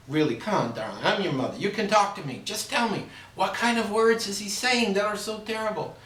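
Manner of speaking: coaxing, dying to know; curious mother. Acted. Mother asking her daughter what he said, high and doting.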